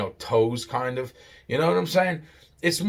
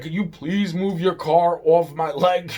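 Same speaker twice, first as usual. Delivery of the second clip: higher-pitched mock exasperation; retold angry demand; 5 semitones higher, 4 dB louder than usual. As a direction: imitate the mad man insisting. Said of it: "he's really fucking mad. He's yelling".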